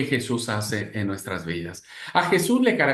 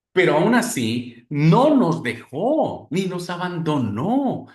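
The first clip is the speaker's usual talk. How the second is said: fervent; 4 semitones higher, 4 dB louder, slower than usual. Acted. Preaching climax, drawn out.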